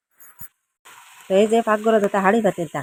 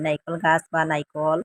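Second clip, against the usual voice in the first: slow demo word; slower than usual. Shown as a demonstration. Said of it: "Sylheti ভাষায় তারে নাইকল কই".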